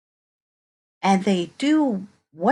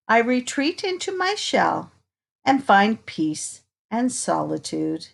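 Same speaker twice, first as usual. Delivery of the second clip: put-on reading to children. Reading picture book to children.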